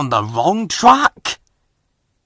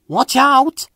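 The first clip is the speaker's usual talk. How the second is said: warning; 12 semitones higher, 4 dB louder than usual. Acted. Mavis warns Stepney.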